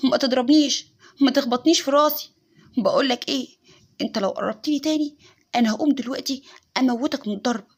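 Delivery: loud, menacing threats to nobody; threatening rant. Retold or imitated. Wife talking to herself, threatening an invisible attacker, loud and menacing. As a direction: snarl warnings at an unseen enemy. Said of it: "بتكلم نفسها وتقول".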